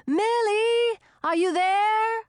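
high, loud roar. A narrator's reading. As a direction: call out over the arrows. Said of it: "he roared".

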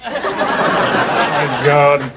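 monotone. Retold or imitated. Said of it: "You see? Like that".

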